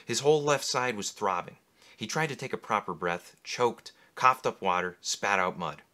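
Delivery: low, measured reading of a novel; story narration. A narrator's reading. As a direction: read it like an audiobook narrator. Reads novel excerpt aloud.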